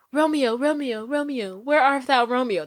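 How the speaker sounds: theatrical Romeo and Juliet plea; mock Juliet. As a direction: ham it up like Juliet on the balcony. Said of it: "That's what it was giving me".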